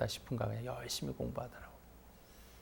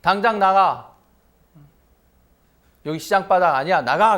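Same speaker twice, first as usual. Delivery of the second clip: higher, louder shouted order; 7 semitones higher, 12 dB louder than usual. Retold or imitated. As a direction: throw him out, full voice. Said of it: "큰 소리로 얘기했어요".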